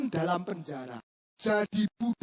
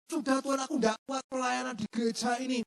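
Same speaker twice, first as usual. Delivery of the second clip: a hint of a tired churchgoer whining to God, rising higher; mock complaint, building to a higher cry; weary believer complaining; 5 semitones higher than usual. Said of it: "Kekuatanmu mungkin hampir habis". (jemaat yang lelah mengeluh kepada Tuhan, sedikit dibuat-buat)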